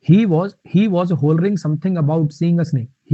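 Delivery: crawling pace, each word set apart; very slow dictation. Shown as a demonstration. Teacher dictates the example sentence to students, very slowly. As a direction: read it out word by word.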